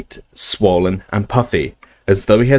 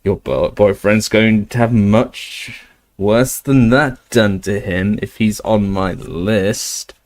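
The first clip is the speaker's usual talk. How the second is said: slow, menacing rasping snatcher; slower than usual. Acted. Greyback taunting Hermione, slow and rasping. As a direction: rasp the threat out slowly. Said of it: "rasping voice".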